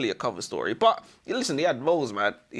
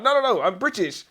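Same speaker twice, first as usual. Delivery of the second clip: high-pitched hasty denial; acted high protest; protesting prisoner; 8 semitones higher, 4 dB louder than usual. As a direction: plead your case, high.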